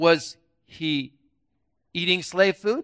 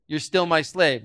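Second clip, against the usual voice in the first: playing the devil; 3 semitones lower than usual. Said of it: "I'm gonna be the devil".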